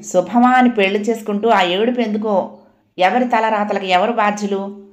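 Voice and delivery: mild exasperated grumble; a touch of peeved impatience; irritated. Acted. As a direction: complain in annoyance. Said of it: "విసుక్కుంటూ".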